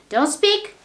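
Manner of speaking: angry order. Shown as a demonstration. Teacher shows the angry way to say it. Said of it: "you are angry or you are not angry".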